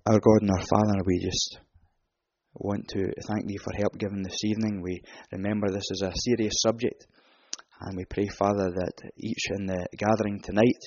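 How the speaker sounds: hushed, soft prayer voice. Acted. Preacher closes the meeting in prayer, hushed and reverent. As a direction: pray quietly and reverently to the Father.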